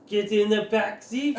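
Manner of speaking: high, drawn-out mock command; acted shouted order. Character forcing another into the car, high drawn-out shout. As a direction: order them around in character. Player's character threatens someone he slammed.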